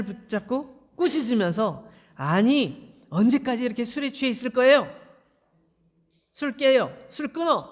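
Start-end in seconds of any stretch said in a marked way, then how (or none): 2.2-7.7 angry shouting. Acted. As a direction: yell at her to sober up. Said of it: "막 이렇게 소리를 지른 거죠".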